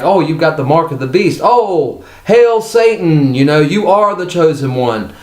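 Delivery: mock the cultists fawning over the mark; mock cultist worship. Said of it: "they were like".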